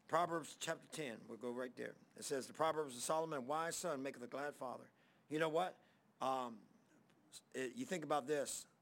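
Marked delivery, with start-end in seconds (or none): 2.5-4.8 scripture reading. Acted. Reads scripture.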